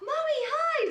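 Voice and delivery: imitating a delighted daughter, very high and loud; big-smile greeting. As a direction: chirp it with a huge grin. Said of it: "Just big smile".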